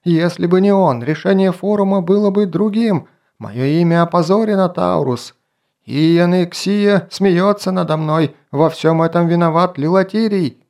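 high, loud angry yell. A narrator's reading. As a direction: yell with all your strength. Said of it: "проорал изо всех сил".

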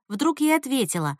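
plain reading voice

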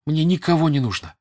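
high, loud, building to a peak; impassioned tirade, climbing to a cry; angry shouting. A narrator's reading. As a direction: shout out love in furious indignation. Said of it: "кричала Наташа".

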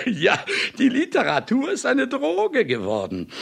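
cynical laugh. Acted. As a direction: laugh it out smugly, then speak through it. Author laughs at his own claim. (zynisches Lachen, in die Worte hinein)

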